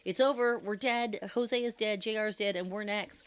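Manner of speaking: screamed. A narrator's reading. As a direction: shriek in total despair. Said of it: "Trey screamed".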